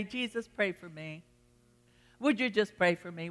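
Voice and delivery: softly voiced, humble little prayer; soft plea. Believer privately asking Jesus for prayer, soft plea. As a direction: drop the volume and ask Jesus gently.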